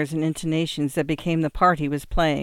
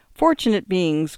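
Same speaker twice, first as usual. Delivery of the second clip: cried; 3 semitones higher, 4 dB louder than usual. Acted. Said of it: "cried the young man".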